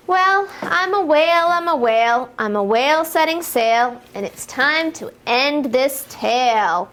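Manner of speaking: sing-song rhyming read-aloud for toddlers; lilting picture-book voice, building to the jump; reading to children. Acted. Teacher reading a rhyme to little kids, sing-song.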